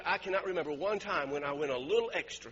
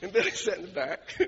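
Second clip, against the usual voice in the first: laughing. Real, not acted. Laughing while telling story.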